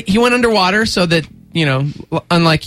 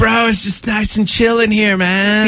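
laid-back dude. Retold or imitated. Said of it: "He's just so laid back".

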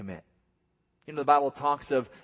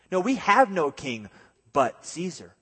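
lightly voiced whiny child; mock a child telling on someone; tattling kid. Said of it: "like a little kid saying".

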